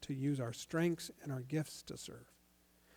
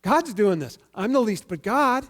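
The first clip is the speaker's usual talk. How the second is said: grateful Paul; 5 semitones higher, 8 dB louder than usual. Retold or imitated. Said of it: "He's saying".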